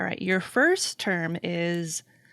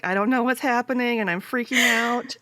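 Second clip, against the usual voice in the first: lightly voiced scared kid, raised pitch; freaked-out kid; 4 semitones higher than usual. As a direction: play a mildly panicked child. Acts a frightened kid under blanket.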